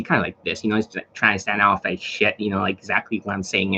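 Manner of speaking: low, muted mock of a weird tonality. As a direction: imitate an odd low tonality. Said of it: "like, a weird tonality".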